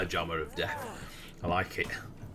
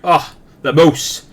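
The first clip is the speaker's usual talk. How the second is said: dying moose voice; 4 semitones higher, 16 dB louder than usual. Acted. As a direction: ham up a dying moose, loud. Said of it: "That was my impression of a dying moose".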